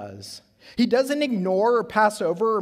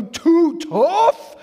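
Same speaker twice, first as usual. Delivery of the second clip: much higher and louder, shouted with glee; exploding with excitement; 11 semitones higher, 9 dB louder than usual. Retold or imitated. Kids answering their dad's rally, shouting with excitement. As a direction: burst out like a thrilled kid. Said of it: "explode with excitement".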